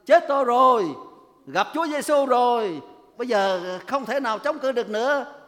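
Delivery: the spirit wails as it is beaten; panicked cry. Retold or imitated. Preacher voicing the spirit crying out in defeat: loud panicked wail. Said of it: "Nó la lên một tiếng thất thanh".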